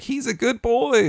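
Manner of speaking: slow, high-pitched mock Indian-accented mother; imitated Indian accent. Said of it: "she slips into that accent".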